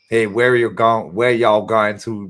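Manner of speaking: put-on slow, amateur New Jersey-New York accent; attempted New York accent. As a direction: try a New York cop, unconvincingly. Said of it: "I can't do a New, New Jersey, New York".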